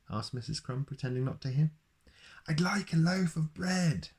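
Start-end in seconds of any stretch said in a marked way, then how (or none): 2.5-4.1 booming Mister Noisy. Acted. Mister Noisy orders bread from the baker, booming. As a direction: boom it out like a noisy giant. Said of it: "Mister Noisy shouted".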